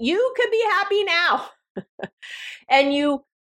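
emphatic, heartfelt, pressing the point home. Speaker addresses the listener directly; yelling at them. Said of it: "It's why I'm yelling at you right now".

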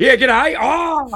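put-on broad Australian accent. Retelling how he answers a comic, put-on broad australian accent. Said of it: "it's like you are Crocodile Dundee".

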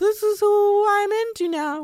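put-on very high-pitched baby goose voice. Voicing a woman who imprinted on a guy, in a goose voice. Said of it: "It's my goose voice".

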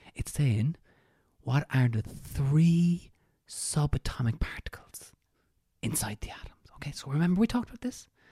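hushed whisper. Playing an invigilator helping a student with a test question, whispering. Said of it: "I'm doing my invigilation properly".

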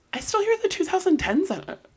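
very high-pitched, upbeat, positive tone. Repeating the other speaker's complaint as praise instead: positive tone. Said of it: "I'm gonna say it in a different tone".

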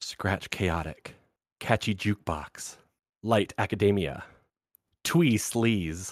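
soft slow whisper. Asked for an ASMR impression, the speaker reads a list into the mic, ASMR whisper. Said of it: "Do your best ASMR impression".

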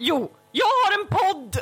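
acted-out shout. Retelling stopping a man, re-enacting own shouting out. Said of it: "Så jag skriker ut".

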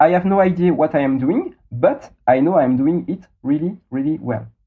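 put-on English spoken in a French accent. Speaking French, then switching to an English quoted line, in a French accent. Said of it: "Beautiful French accent, my friend".

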